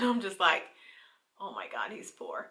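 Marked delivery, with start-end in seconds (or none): 1.4-2.5 laughing whisper. Retold or imitated. Laughing at his outfit.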